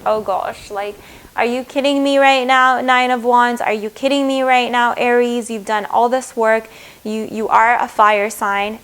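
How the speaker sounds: playfully fed up with the querent; exasperated. Retold or imitated.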